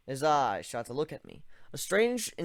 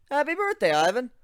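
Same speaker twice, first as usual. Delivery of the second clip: excited birthday cheer; 12 semitones higher, 9 dB louder than usual. Acted. Surprised friend cheers his birthday.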